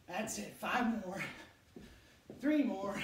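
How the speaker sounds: loud coach call; loud urging. Real, not acted. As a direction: drive them through the reps. Urging the last reps.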